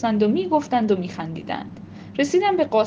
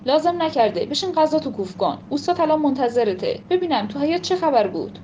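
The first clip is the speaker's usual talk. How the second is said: scolding; 4 semitones higher than usual. Acted. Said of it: "ننه تشر زد".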